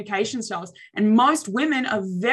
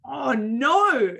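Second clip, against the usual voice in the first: mock dismay; 4 semitones higher than usual. Shown as a demonstration. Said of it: "I could choose to go".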